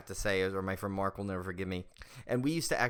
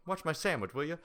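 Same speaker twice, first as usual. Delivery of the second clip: higher put-on movie voice; pinky-up quote; 5 semitones higher than usual. Guarding his sandwich, higher mock request. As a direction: pitch it up, pinky in the air. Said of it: "I'll put my pinky up and go".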